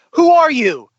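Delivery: high loud mocking question; mock high-pitched demand. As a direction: squeal the question. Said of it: "It's like".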